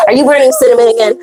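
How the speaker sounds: quick, rising mock interrogation; annoyed husband. Husband quizzing wife about what she burns, annoyed. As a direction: imitate a nagging, irritated partner. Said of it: "He gets so annoyed".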